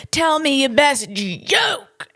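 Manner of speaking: slow demanding lawyer imitation; drawn-out mock demand for a joke; imitating feisty lawyer. The comic repeats the lawyer's demand for him, slow mock demand. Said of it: "This is what he did".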